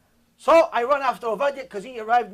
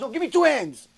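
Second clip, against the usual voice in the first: put-on toddler voice; 5 semitones higher, 4 dB louder than usual. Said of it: "He goes".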